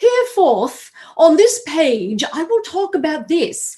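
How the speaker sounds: high, slow, lofty and stiffly formal voice. Recalling sitting down to write a book: mock Shakespearean voice. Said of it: "my inner Shakespeare was like".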